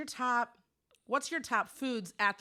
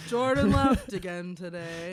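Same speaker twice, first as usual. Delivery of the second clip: louder, hammed-up dog talk; put-on dog voice; 9 dB louder than usual. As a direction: play the dog reporting the news. Voicing Frank the dog's conversation.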